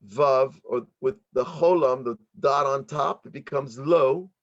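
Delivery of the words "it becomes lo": it becomes Lo, a long open "Lo". Shown as a demonstration. Teacher showing students how to say "Lo". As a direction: sound out "Lo" clearly with the stress on the Lamed. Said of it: "Lo means his".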